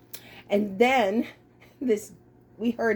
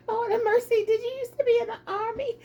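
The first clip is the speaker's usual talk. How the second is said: laughing question; 3 semitones higher, faster than usual. Real, not acted. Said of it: "laughing tease".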